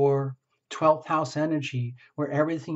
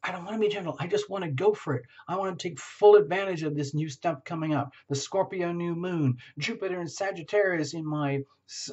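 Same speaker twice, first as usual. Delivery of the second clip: eager Scorpio voice. Pretend. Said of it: "it's like".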